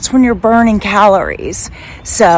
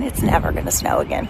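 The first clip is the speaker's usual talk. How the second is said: mock solemn vow; 5 dB quieter than usual. Playful denial of snow.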